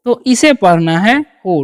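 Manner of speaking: हु, W silent, long ओ; हु कहो, डब्ल्यू मत बोलो, ओ लंबा; say who. Shown as a demonstration. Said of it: "डब्ल्यू का उच्चारण करना ही नहीं है". (हु – डब्ल्यू का उच्चारण नहीं, ओ दीर्घ)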